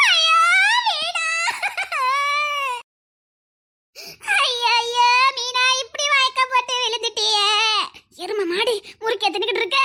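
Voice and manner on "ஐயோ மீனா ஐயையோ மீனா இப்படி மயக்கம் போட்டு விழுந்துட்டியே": hammed-up lament, crying out her name; overacted mourning over a fainted girl; mock grief put on for show; fake wailing. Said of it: "இப்ப என் performance பாருங்கக்கா".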